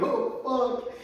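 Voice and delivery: high, loud, very slow cry of dismay; drawn-out horror. Retold or imitated. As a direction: stretch the curse out in horror.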